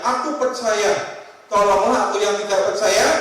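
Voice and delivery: a father calling out to Jesus, pleading loudly; crying out. Acted. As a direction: cry it out, begging in faith.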